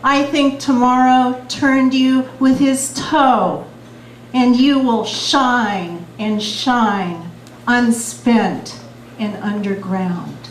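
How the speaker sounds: slow, measured poetry reading; beat poetry. Acted. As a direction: let each image land slowly. Reads her poem The Window.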